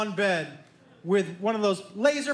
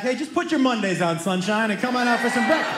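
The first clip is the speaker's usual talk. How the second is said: yelling back; 4 dB louder than usual. Retold or imitated. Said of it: "I just yelled back".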